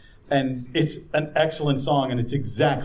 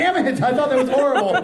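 mock outrage; 12 semitones higher, 6 dB louder, faster than usual. Real, not acted. Losing the game, mock outrage.

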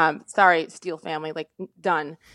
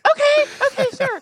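very high, loud, squeaky agreement; flustered; 5 dB louder than usual. Retold or imitated. Student answering coach's jibe about her name, flustered high squeal. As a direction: squeal a flustered yes, imitating yourself.

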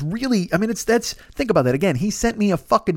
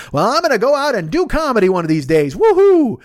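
mock cheerful boast; 6 semitones higher, 5 dB louder than usual. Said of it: "you don't wanna hear me going".

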